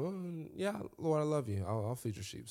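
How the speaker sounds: lightly voiced Peter, easy and offhand; casual first answer. Peter answering Jesus the first time, offhand and easy. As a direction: shrug it off casually. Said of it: "the first time".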